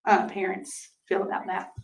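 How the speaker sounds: losing her voice, hoarse and worn; strained, fading sick voice. Real, not acted. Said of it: "I'm losing my voice".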